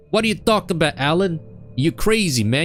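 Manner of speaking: high, quick incredulous buddy voice; skeptical. Acted. Barry doubting best friend Alan, skeptical. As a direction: challenge him in fast mock disbelief. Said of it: "he's very skeptical".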